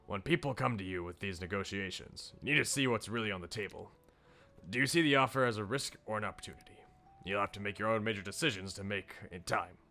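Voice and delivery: measured, earnest speechmaker giving advice; restrained, sincere mentor voice; mentoring politician. Acted. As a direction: share hard-won lessons with a young helper.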